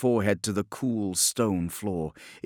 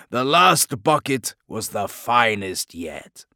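louder, sarcastic politeness; mock courtesy; 6 dB louder, slower than usual. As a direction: play the gracious guest mockingly. Sarcastic to captors.

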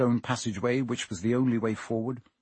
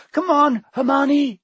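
loud, high shout upward; calling out; 13 semitones higher, 7 dB louder than usual. A narrator's reading. Harry shouting up to Hermione to jump, loud call. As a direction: yell it up to her.

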